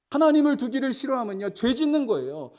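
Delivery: climbing sermon cadence; fervent preaching. Acted. Preaching at full force.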